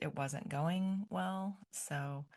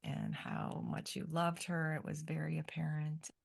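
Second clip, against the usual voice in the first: emotional whisper. Real, not acted. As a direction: voice sinks to a whisper. Mom moved recalling daughter's love.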